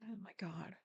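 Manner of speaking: soft breathy oh my God; stunned by the clip, whispered to herself; whispered disbelief. Real, not acted. Aside whisper.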